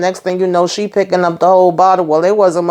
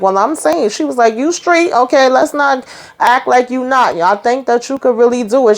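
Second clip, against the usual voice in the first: much higher, sly coaxing voice; coaxing Nancy; 6 semitones higher than usual. Retold or imitated. Miss Nancy coaxing Sharon to set him up, high and sly. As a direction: sweet-talk her into it.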